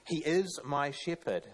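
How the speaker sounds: slow, IS pressed down firmly in "He is my shepherd"; stress on IS. Shown as a demonstration. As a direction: lean on "is" and let it fall. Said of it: "I've highlighted that word".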